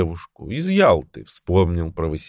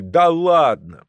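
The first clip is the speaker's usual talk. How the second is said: high, slow drawn-out disbelief; incredulous shout; 9 semitones higher, 4 dB louder, much slower than usual. A narrator's reading. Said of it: "ржанием и выкриками".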